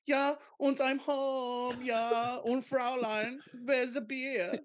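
high, slow mock German accent. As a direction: ham up a German dad coming home. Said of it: "he's like".

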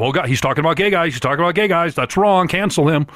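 mildly hammed-up offended objector; oversensitive complainer. Mimicking people upset about gay jokes, mock outrage. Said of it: "some people are so sensitive".

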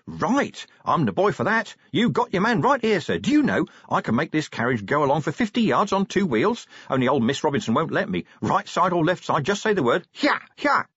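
high, excited boasting; eager driver, spurring on the horses at the end; enthusiastic coachman. A narrator's reading. Young coachman offering Vimes stunts, excitedly enthusiastic. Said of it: "enthusiasm rising".

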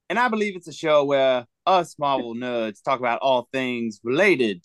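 put-on playful Wild West cowboy accent. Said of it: "talking like a cowboy accent right now".

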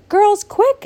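high, loud, urgent call; excited exclamation. Acted. Genevieve calling her sisters, high and loud. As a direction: snap the sisters into action. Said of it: "exclaimed Genevieve".

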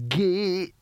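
halting, unsure first syllable; hesitant. A narrator's reading. Old barbarian forcing out a polite word, hesitant. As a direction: start the word, then falter. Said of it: "said Cohen hesitantly".

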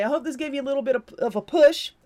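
tripping over the words; tongue-tied, fumbling the phrase; stumbling. Real, not acted. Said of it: "See, I can't even speak".

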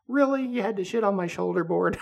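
high, laughing disbelief; exasperated boss. Retold or imitated. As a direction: whine it with a laugh. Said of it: "He was just like".

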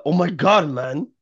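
lightly imitated friend's catchphrase; mock exasperated gamer pal; Ash. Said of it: "Ash is, uh".

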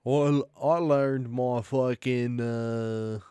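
slow, hybrid Australian drawl; weird Australian drawl. Acted. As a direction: drag it out in a muddled Australian accent. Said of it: "You're just doing a weird drawl kinda hybrid".

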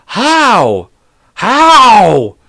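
high, loud drawn-out howl; mock pained yell. Dad slapped as daughter runs off, hammed-up howling. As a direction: howl it out like the slap just landed. Retold reaction to being slapped.

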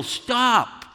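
high, sharp call of Stop; yelled stop. Shown as a demonstration. Preacher demonstrating a clerk shouting at a shoplifter. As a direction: shout after a fleeing thief. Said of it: "appropriate to yell".

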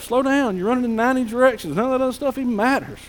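lightly acted, hurried exhortation; urgent urging. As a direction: rattle it off as a pressing plea. Voicing God urging people to slow down.

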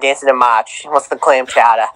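put-on playful Boston accent, dropping the R's; mock Boston accent. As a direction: ham up Boston on MARCH and CHOWDER. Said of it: "Boston accent".

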